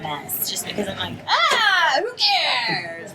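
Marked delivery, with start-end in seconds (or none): 1.3-3.1 carefree dismissal. Retold or imitated. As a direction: toss it off without a care. Shrugging off looking a mess.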